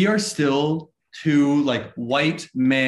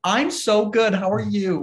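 answering the server in a fake nice voice; customer service voice; 7 semitones higher, slower than usual. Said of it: "your customer service voice".

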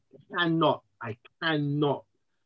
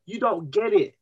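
wife insisting; 5 semitones higher than usual. Retold or imitated. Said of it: "She goes".

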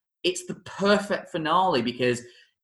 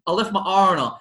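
lightly put-on higher Baltimore accent as Edna; a hint of Edna's Baltimore accent, raised pitch; 7 semitones higher than usual. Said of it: "thinking with his accent".

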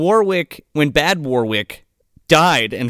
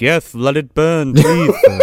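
butler voice; 4 dB louder than usual. Retold or imitated. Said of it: "and he's just like".

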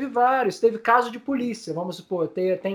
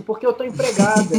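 tearful; 4 dB louder than usual. Real, not acted. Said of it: "Peraí que eu vou conseguir".

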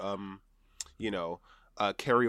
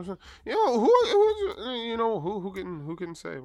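laughing; 10 semitones higher, 5 dB louder than usual. Real, not acted. Laughing mock shrug.

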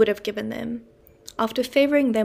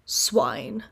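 deepest voice. Acted. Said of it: "in his deepest voice".

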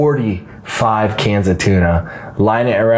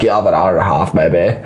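laid-back surfer dude; 2 semitones lower than usual. Shown as a demonstration. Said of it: "a surfer dude at the end".

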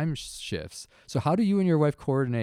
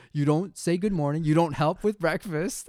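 dad rant; 6 semitones higher than usual. Retold or imitated. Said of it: "dad rants".

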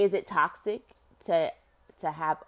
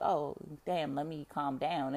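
self-calming aside; 6 dB quieter than usual. Retold or imitated. Telling herself to calm down, soft self-talk. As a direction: hush yourself down.

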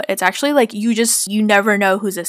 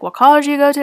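higher, louder chirpy question; friendly, happy; 6 semitones higher, 5 dB louder, much faster than usual. Retold or imitated. Tech assistant making small talk with a patient, friendly and happy. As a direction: imitate cheery small talk. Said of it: "so friendly and happy at nine A M".

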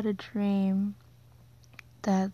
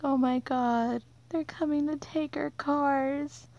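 higher, panicky retelling of her alarm; retold panic; 6 semitones higher than usual. Seeing the truck at night, she voices higher retold panic. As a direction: squeak it out like the dream panic is back. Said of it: "I'm like".

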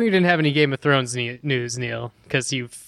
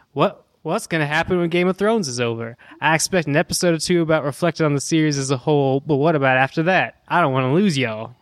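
put-on Texan accent. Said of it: "I'm supposed to do it in a Texan accent".

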